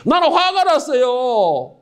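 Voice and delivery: slow, sulking son; slow hurt complaint of the elder son; slow sulky complaint. Acted. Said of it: "큰아들이 그런 거예요".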